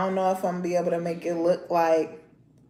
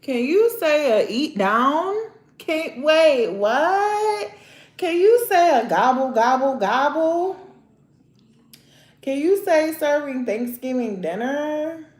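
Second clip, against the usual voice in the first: put-on higher, louder coaxing baby-talk questions; baby talk to nails; 5 semitones higher, 3 dB louder than usual. Vlogger cooing at her nails as if to a toddler, baby talk. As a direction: coax like you're teaching a toddler to talk.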